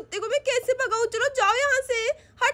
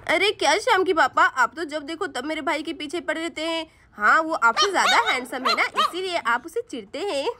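lower, laughing playful teasing; teasing wife; 5 semitones lower than usual. Acted. Wife teasing husband that her brother is handsomer, laughing. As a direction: tease him with a laugh.

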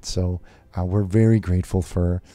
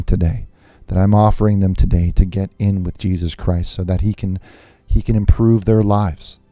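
louder, building preacher's pitch; preaching; 4 dB louder than usual. Acted. Televangelist urging viewers to sow seeds, loud preaching. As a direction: preach it, pushing the money plea.

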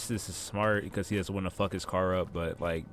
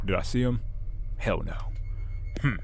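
lightly voiced gruff gas station clerk; a hint of a grumpy night clerk, then suddenly helpful; shop clerk voice; 3 semitones higher than usual. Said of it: "I don't know why I gave him that voice".

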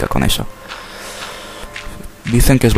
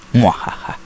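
spoken evil laugh; mad scientist laugh. Pretend. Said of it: "soy un creeper encubierto".

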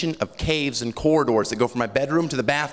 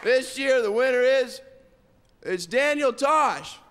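mock awards announcer; 9 semitones higher than usual.

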